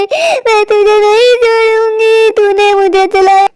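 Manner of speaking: put-on the burned witch swears revenge on the boy; drawn-out vengeful curse. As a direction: drag the words out in agony and rage.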